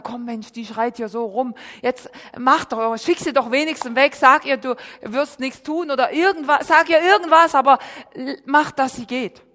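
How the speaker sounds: hammed-up pleading to get rid of her; impatient disciples. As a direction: disciples nagging Jesus, half laughing.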